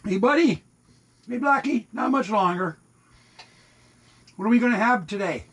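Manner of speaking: high, sing-song calls to the cats; high pet voice, quick at the end; pet talk. Real, not acted. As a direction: call the cats in, pitch lifted high. Calling cats before feeding.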